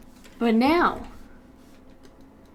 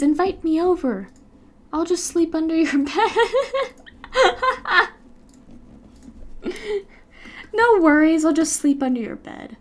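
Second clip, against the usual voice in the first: creepy monster voice; 6 semitones higher, 5 dB louder than usual. Pretend. Playing the monster under bed.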